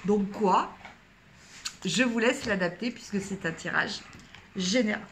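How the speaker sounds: talking through hiccups; hiccuping between words. Real, not acted. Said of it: "J'ai le hoquet". (avec le hoquet)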